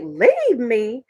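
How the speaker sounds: rising disbelief, climbing high on serious; wife mocking the husband who walked out; incredulous retort. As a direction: throw it back at the husband in shock. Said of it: "I was like".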